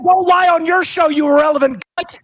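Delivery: angry shouted dismissal; crashing out. Real, not acted. Host accuses guest of lying, crashing out. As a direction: shout them off the show. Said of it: "like, a legitimate crash out".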